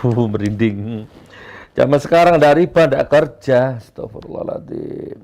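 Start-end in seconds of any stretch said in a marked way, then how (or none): 1.7-3.8 mock the excuse a little louder; mocking loud quote. 3.8-5.2 whispered astagfirullah; whispered prayer. Real, not acted. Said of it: "istigfar berbisik".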